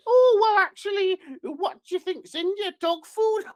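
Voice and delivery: very high falsetto nutritionist voice; loud falsetto opening, mock-enquiring; Gillian McKeith. TV nutritionist quizzing someone on dog food, high falsetto. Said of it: "she will tell you".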